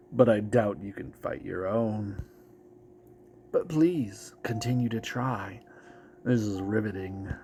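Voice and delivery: lightly voiced sneering demon; a hint of a gloating devil; Mephisto voice. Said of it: "what Mephisto's voice is supposed to sound like".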